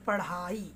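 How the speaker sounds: पढ़ाई with a breathy flapped ढ़. Shown as a demonstration. Teacher showing students the right पढ़ाई. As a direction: say पढ़ाई as pa-Rhaai, tongue flicked. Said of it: "ये पढ़ाई नहीं".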